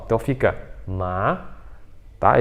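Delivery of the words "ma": "ma" starting low and going up; second tone, rising. Shown as a demonstration. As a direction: start "ma" at the bottom and lift it. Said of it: "começa lá embaixo e sobe".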